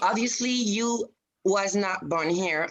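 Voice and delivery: slow, pointed put-down; slow condescension. Pretend. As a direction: draw it out condescendingly. Clerk condescends to foreign caller.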